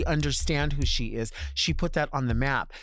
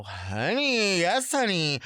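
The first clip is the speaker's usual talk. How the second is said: mock hype. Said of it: "When I hear a bitch say that, I go".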